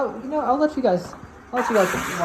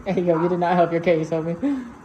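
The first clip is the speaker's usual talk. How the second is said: louder teasing scold at the robot vacuum; mock scolding; 3 dB louder than usual. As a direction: rib the robot like a buddy who messed up. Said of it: "I'm making fun of Deku".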